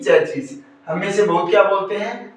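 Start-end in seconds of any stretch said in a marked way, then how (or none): 0.0-0.6 चेचिस said slowly as "CHE-chis"; slow चेचिस with two ch sounds; wrong pronunciation. Shown as a demonstration. Teacher warning against the common error, slowly mispronounced "che-chis". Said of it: "न कि".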